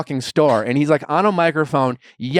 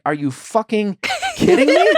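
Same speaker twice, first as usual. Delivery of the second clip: high, laughing outrage; laughing disbelief; 9 semitones higher than usual. Retold or imitated. Retold outburst with laugh.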